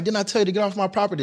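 high, fast threatening bark; retold gunman threat. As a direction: fire it off like a gunman warning. Gunman threatens narrator on porch.

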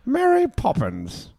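high, slow, lilting name call; high sing-song Mary Poppins. Pretend. To his co-host, echoing the film's title in a high lilting voice.

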